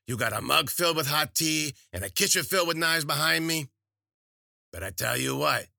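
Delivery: high, loud hag voice, amused; taunting crone. A narrator's reading. Witch daring Wheeler to try the knives, high loud crone. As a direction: tease her about the knives.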